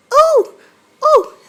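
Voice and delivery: high, loud sudden "Oh!"; surprised. Real, not acted. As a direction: gasp out a bright "Oh!". Sudden excited idea.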